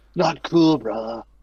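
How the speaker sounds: very low, loud surfer dude voice. Narrating a game, voicing a character just hit on the head by Thrax: surfer dude voice. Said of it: "Like he sounds like a surfer".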